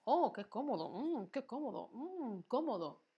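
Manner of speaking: mock contented oohs and mms; acted comfort. Shown as a demonstration. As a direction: savour being comfortable. Acts out being comfortable to illustrate.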